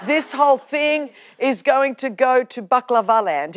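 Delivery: laughing half-shout of mock panic; a laughing mock alarm. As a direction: blurt it out through a laugh. Imagining family chaos, laughing.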